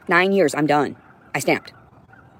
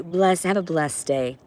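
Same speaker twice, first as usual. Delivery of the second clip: slow, sugary condescending blessing; softer, slow mock-sweet "have a blessed day"; 4 dB quieter, slower than usual. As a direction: say it with fake politeness.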